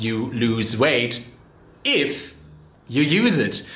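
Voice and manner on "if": if lifted high and held before a pause; stress on if. Real, not acted. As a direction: lean hard on the word if, then pause. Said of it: "that is really the big, big, big if".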